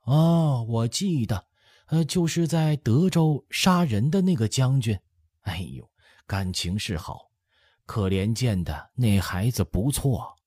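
lifted, animated matriarch voice; smiling old empress dowager. A narrator's reading. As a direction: remember aloud with an old mother's delight. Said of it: "太后笑道".

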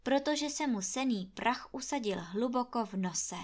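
usual speaking voice

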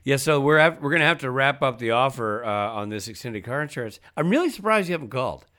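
lightly voiced pushy caller; mock salesman. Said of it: "he'll go like".

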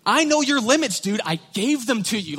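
high, loud, blunt God retort; God snapping back at Moses, high and loud. Acted. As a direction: shoot back like it's obvious.

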